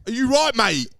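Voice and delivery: loud, high mock London challenge; threatening London accent. Acting the scary London mate, threatening London accent. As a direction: shout it like a London geezer picking a fight. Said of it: "It's a bit scary".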